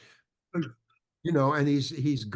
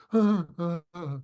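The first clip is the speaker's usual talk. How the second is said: mock clumsy emoting; 3 semitones higher, 3 dB louder than usual. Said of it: "I didn't know how to".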